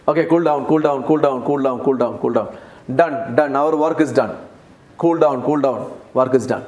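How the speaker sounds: low, hushing "cool down" over and over; calm her down like a sly comforter; soothing cult members. Retold or imitated. Preacher voices the cult members soothing the girl, low and hushed.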